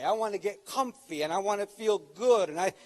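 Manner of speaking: half-sung, lazy mock comfy voice; lightly hammed-up lazy plea; mock self-indulgent whine. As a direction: imitate someone who just wants to chill. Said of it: "what a lot of people think of comfort today".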